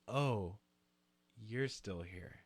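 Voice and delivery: quiet, cold flat letdown; dismissive. Retold or imitated. Partygoer brushes off the unwanted guest, quiet and cold. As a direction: make clear they're not welcome. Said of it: "In that exact tone".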